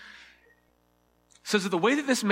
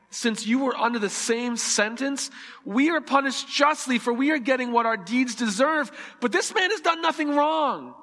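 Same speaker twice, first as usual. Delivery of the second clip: higher-pitched earnest reproach; rebuke; 5 semitones higher than usual. Acted. Second criminal rebukes the one mocking Jesus, reproachful. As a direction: rebuke him as you read, pitch climbing at the end. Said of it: "the other criminal rebuked him".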